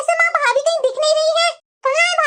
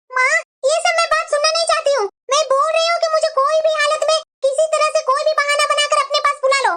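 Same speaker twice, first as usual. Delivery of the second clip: insistent demand; 2 semitones higher than usual. Acted. Daughter quarrels, insists on being called home.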